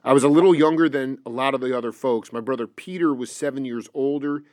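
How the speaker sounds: quietly reciting someone's account from the page; reading aloud. Real, not acted. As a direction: read out an interview quote evenly and low. Reads an interview quote aloud.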